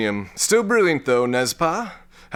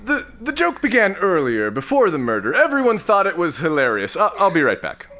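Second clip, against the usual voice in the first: flustered; 4 semitones higher than usual. Acted. Flustered excuse after a faux pas.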